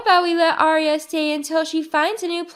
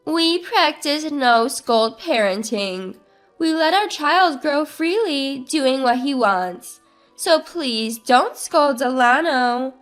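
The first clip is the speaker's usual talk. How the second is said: annoyed. Acted. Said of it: "visibly annoyed".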